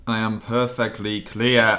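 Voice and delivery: slow, over-projected mic check; exaggerated mic check. Dean answers the mic check, exaggeratedly drawn out.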